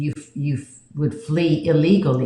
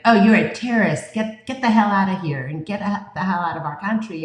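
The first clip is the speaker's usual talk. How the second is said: hostile bully; 4 semitones higher than usual. Retold or imitated. Bullies telling him get out.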